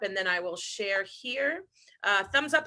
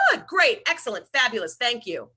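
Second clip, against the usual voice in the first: automatic cheery answer; 3 dB louder than usual. Retold or imitated. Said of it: "many times we answer face value".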